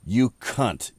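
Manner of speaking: imitated British insult with open vowel; British accent. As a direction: say it like a Brit, two separate hits. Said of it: "via the Brits".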